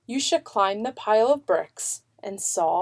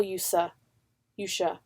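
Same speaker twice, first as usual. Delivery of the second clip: soft whisper; 7 dB quieter than usual. A narrator's reading. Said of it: "whispered grandfather".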